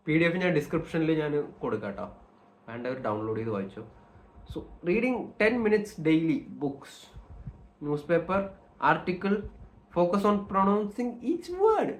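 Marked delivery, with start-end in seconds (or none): 4.6-11.9 slow, deliberate English list reading; higher, measured read-aloud. Shown as a demonstration. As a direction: pronounce each item carefully with pauses. Reads out exercise in English.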